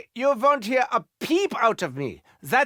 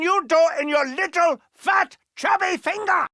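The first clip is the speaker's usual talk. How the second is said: rising insult; 7 semitones higher than usual. Acted.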